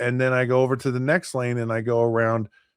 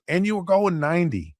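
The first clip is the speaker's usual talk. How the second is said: exasperated scolding; 7 semitones higher than usual. Acted. Officer adds the speeding charge.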